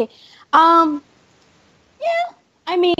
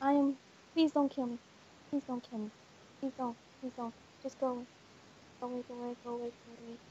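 very soft, lower frightened begging; terrified whisper; 6 semitones lower, 15 dB quieter, faster than usual. Real, not acted. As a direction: plead almost silently. Hiding, begging killer to leave.

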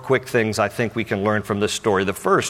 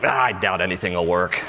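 doubting Thomas; 5 semitones lower, 3 dB quieter than usual. Acted. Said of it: "Thomas is like".

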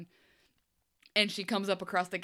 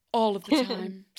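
imitating the elder; 5 dB louder than usual. Podcaster mimics the suspicious elder's creepy voice. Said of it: "she talked like this".

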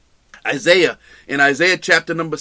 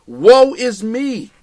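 drawn-out lament; 4 semitones higher, 4 dB louder, much slower than usual. Retold or imitated. Preacher voices Paul's lament.

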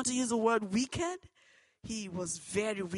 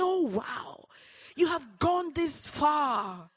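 slow, loud, high outraged scream; screaming father; 5 semitones higher, 6 dB louder, much slower than usual. Retold or imitated. Father screaming at his daughter, loud, high and slow. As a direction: scream it in disbelief, dragging the words. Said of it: "He screamed and said".

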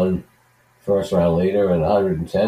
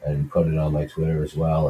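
flat, sick voice from a head cold; monotone cold voice. Real, not acted. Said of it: "I apologize for my monotone".

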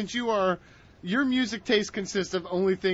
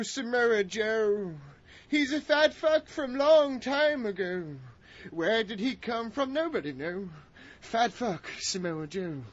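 lightly hammed theatrical recitation, fading softer; Shakespeare-style reading, getting quieter; Shakespearean recital; 4 dB quieter than usual. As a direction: recite it like an old stage actor. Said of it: "in my Shakespearean accent".

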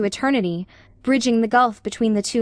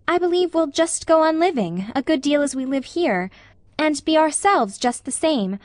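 lightly voiced young friend, pitched up at phrase starts; earnest, reassuring Anne; 3 semitones higher than usual. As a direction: offer gentle comfort, feeling your way in. Narrator voices Anne reassuring Ruby.

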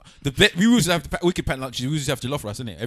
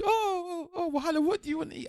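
high, fast, fussy teacher voice; imitating an eager teacher asking, high and quick; hammed-up teacher offering breakfast; mock teacher voice; 11 semitones higher, 5 dB quieter than usual. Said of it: "And they said".

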